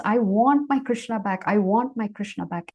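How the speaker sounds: mildly frantic, stressed "want"; frantic insistence. Acted. Mother demands her missing Krishna back, mildly frantic. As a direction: plead insistently, acting a touch frantic. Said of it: "And she's frantic".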